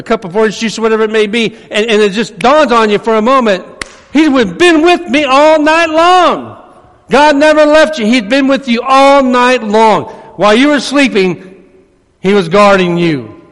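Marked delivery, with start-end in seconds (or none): 4.1-10.0 high, slow, awed cry of joy; dawning realization. Acted. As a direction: voice rising in wonder. Preacher voicing the dawning realization.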